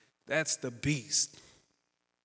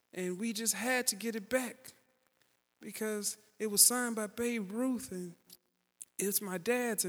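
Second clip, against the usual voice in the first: put-on higher, eager boy pleading his case; a hint of a scared kid talking fast to get out of trouble; nervous kid; 6 semitones higher than usual. Boy explains the lost ball to mean neighbour, higher nervous kid voice.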